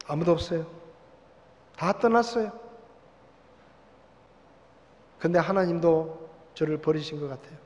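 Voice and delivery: soft, forlorn prayer of a lonely man; lamenting sigh. Acted. Jacob alone by the river, softly lamenting to God. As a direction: sigh it out like someone abandoned. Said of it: "하고 탄식하며 낙심하고".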